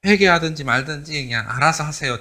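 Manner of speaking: offhand, half-hearted warning; lazy, indifferent prophet's warning; careless. Retold or imitated. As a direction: toss it off like you don't care. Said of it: "대충 그렇게 이야기했을 거야".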